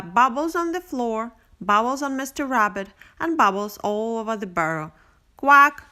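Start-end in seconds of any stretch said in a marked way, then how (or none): 5.4-5.8 duckling quack. A narrator's reading.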